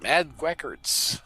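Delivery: slow drawn-out goofy name; goofy clueless sitcom voice. Pretend. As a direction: stretch the name out goofily.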